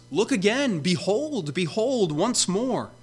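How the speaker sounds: preacher voicing the prophet's urgent summons; urgent prophetic call. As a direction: plead with them to lift their eyes, rising urgency. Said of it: "And so Isaiah would say to us".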